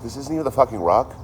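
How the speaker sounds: can't believe it isn't the real rock; outraged disbelief. Retold or imitated. Retelling his reaction to the guide, outraged disbelief. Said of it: "I'm like".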